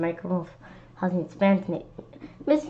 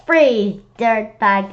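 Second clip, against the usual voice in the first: mild cop yell; 5 dB louder, much slower than usual. Retold or imitated. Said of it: "Cops on T V always yell".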